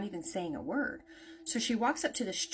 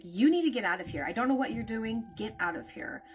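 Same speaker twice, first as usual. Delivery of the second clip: aggressive. Retold or imitated. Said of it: "starts getting a little more aggressive".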